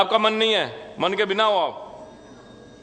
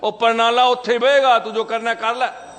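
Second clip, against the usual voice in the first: Punjabi goon; 6 semitones higher than usual. Retold or imitated. The neighbour in Punjabi, refusing to stop the drain. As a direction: toss it off like a stubborn Punjabi bully. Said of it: "Punjabi था वो".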